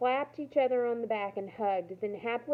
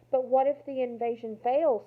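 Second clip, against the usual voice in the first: louder, higher anxious outcry; cried out; 4 semitones higher, 5 dB louder than usual. Acted. Girl crying out to the leader about the invasion, anxious and loud. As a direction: cry out in alarm. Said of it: "Samira cried".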